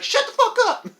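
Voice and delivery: very high, loud imitated outburst; mock yelling. Imitating moviegoers silencing him, exaggerated yell. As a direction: holler it as an exasperated audience member. Voices audience telling him off.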